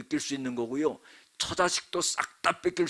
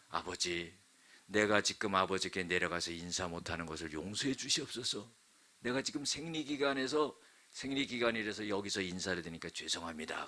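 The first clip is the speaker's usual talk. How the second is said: softer, apologetic daughter; soft meek excuse; 4 semitones lower, 6 dB quieter than usual. Acted. Daughter to her father, softly apologetic. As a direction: plead gently from the saddle.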